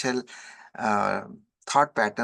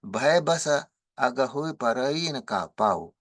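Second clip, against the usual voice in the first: brisk sing-song chanting of the chaupai; verse recitation; much faster than usual. Acted. Chants Tulsidas verses before translating.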